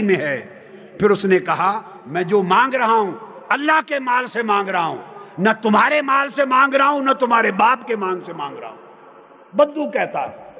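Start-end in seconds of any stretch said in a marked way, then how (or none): 2.1-8.8 rising, higher mock shout of a defiant villager; insistent demand. Preacher acts the bedouin insisting it is Allah's wealth, in a defiant mock shout. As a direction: hammer each न तुम्हारे माल home.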